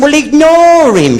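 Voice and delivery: high, drawn-out, slowed plea; high-pitched hushed urging. Acted. Mock shocked friend tells Vera in the cinema to ignore the man. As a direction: say it high and slow, like a shocked hiss.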